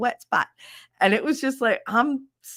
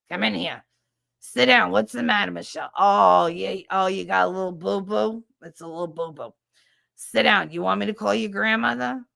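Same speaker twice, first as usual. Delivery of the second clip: nurse Pat. Retold or imitated. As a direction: boom out a chain-smoking nurse's fuss. Nurse Pat voiced to child.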